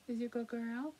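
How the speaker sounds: sweet talk to Daisy the dog; pet talk. Real, not acted. Talking to her dog Daisy.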